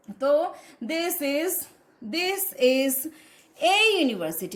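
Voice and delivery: "a" said as a full "ay", phrase in slow pieces; pause, then a clear ay for "a" before "university"; strong-form A. Shown as a demonstration. Teacher demonstrating the A rule, "a" as ay. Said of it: "उसको ए ही बोलते हैं".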